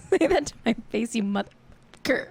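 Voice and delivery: laughing playful taunt at a friend; laughing mock challenge. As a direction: giggle through a fake threat. Repeats the challenge while laughing.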